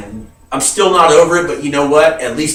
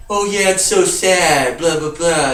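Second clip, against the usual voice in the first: mocking indifference. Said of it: "everybody's just kinda like".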